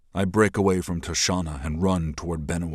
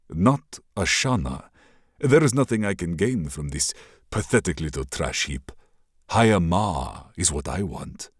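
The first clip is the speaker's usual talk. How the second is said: gloating villain. Acted. Raider prince mocks the princess's refusal, lightly sneering.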